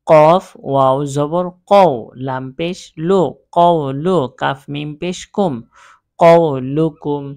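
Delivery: name each letter and its vowel sign in turn, like a teacher spelling out a Quranic word. Shown as a demonstration. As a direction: spell each Arabic letter with its vowel sign, loud and clear, in short bursts. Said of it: "আমি প্রথম line বানান করে পড়িয়ে দিলাম".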